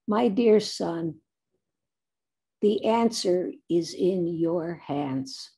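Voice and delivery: lightly voiced sage, slow and measured; slow down, a hint of a wise elder; wise woman. Wise woman answering the teenage boy, slow and measured. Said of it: "this very wise woman".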